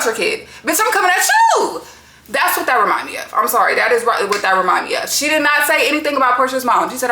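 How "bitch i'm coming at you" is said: high, squealing through laughter; laughing high retort. Retold or imitated. Telling off the mothers, laughing high.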